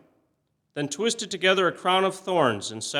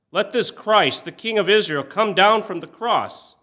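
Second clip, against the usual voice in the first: loud mocking taunt; 7 semitones higher, 6 dB louder than usual. A narrator's reading. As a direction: taunt him from below, loud and scornful. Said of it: "mocked him".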